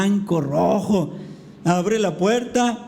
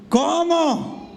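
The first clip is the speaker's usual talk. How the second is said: shocked question; 8 semitones higher than usual. Retold or imitated. Daughter's shocked reply.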